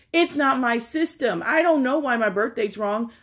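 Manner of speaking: climbing in pitch, baffled and fed up; exasperated inner rant. Retold or imitated. To the pharmacist in her head, exasperated and rising.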